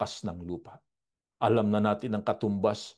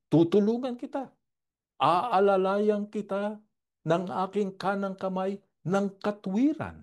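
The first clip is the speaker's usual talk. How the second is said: fervent proclamation; 8 semitones higher than usual. Acted. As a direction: lean into every word like a vow. Preacher repeating God's promise.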